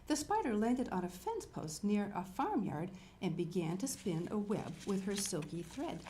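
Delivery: measured picture-book reading; story narration. A narrator's reading. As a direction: read to young children, unhurried at first. Reads picture book aloud.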